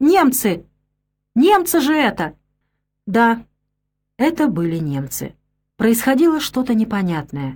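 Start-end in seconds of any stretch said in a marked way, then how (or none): 0.0-2.3 sudden, high, terrified, frightened outcry. A narrator reads a girl crying out as she sees the tanks: terrified cry. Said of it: "страшным голосом вскрикнула".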